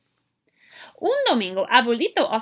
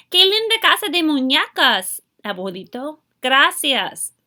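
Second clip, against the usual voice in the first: excited; 4 semitones higher, 6 dB louder than usual. Acted. Child thanking abuelito for dollhouse.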